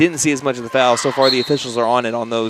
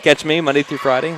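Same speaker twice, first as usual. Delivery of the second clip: radio DJ voice; 3 semitones higher, 4 dB louder than usual. Acted. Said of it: "like, a radio D J".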